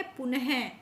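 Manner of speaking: पुनः said as "pu-ne-he"; sounded visarga. Shown as a demonstration. Teacher showing how two dots are spoken, पुनः with sounded H. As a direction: finish पुनः with an audible H syllable. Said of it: "तो क्या बोलेंगे?".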